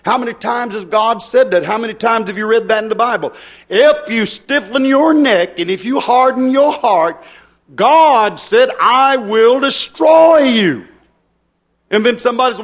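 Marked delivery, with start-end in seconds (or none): 3.7-10.9 preaching warning. Acted. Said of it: "preacher quoting scripture".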